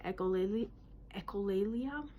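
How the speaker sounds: "echolalia" said as echo-LAY-lia; pronunciation demo. Shown as a demonstration. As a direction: sound out "echolalia" carefully, tone rising at the end. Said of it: "That's how you say it".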